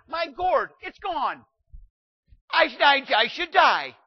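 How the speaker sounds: high, loud self-pitying complaint; whiny Jonah. Retold or imitated. Jonah complaining to God about his gourd, loud self-pitying whine. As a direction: wail like a sulking prophet. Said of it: "Jonah's like".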